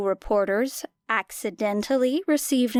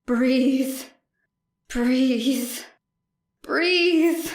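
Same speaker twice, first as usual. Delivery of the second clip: desperate self-urging; 3 semitones higher, 3 dB louder, much slower than usual. A narrator's reading. Willing herself to breathe in panic.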